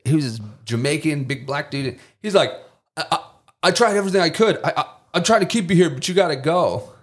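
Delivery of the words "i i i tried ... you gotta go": mock crying plea. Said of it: "he looked like he was crying".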